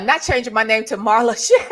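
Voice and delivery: fast words breaking into a laugh; real laughter mid-sentence. Real, not acted. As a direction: rush the joke and laugh through it. Jokes about viewer names.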